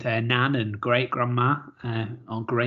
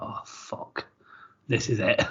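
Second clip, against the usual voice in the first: whispered panic; 3 semitones lower, 5 dB quieter than usual. Retold or imitated. Retold panicked thought.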